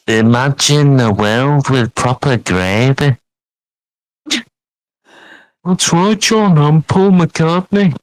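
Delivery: put-on lightly done Liverpool accent; a hint of cheery Scouse band member; playful Liverpool band-member voice, only lightly shifted; impression of a singer. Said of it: "Doing an impression of the Beatles".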